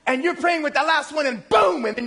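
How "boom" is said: loud, high burst of a boom; sudden boom. Retold or imitated. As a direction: punch it out like a blast.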